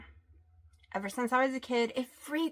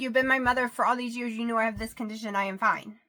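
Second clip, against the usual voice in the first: heated pleading; 4 dB louder than usual. Retold or imitated. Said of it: "I'm like".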